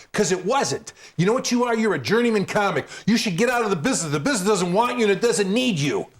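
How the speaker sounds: high, scornful tirade, speeding up; mock scolding rant. Rob Bartlett berating the new comic in the bathroom, mock scolding. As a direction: tear the young comic down.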